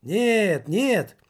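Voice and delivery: high, eager denial; happily smiling. A narrator's reading. Young man contradicts the gloomy welder, happy. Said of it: "счастливо улыбаясь".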